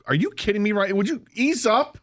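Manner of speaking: high, disbelieving New York plea; incredulous. Retold or imitated. Telling roommate to ease up, incredulous and high. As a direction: beg him to ease up, half laughing. Retelling shock at hard throws.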